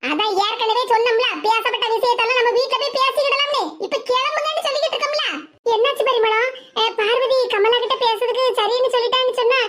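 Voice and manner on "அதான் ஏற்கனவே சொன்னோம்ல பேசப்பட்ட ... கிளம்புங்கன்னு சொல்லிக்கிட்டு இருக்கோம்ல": irritated, quickening at the end; a touch cross, pressing to leave; angry. Acted. Telling friends they were told to leave, irritated. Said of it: "இப்படி கோவமா பேசிக்கிட்டு இருக்கா".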